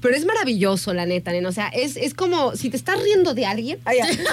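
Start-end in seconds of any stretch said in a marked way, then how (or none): 1.5-4.3 laughing. Real, not acted. Recalling a laughing fit.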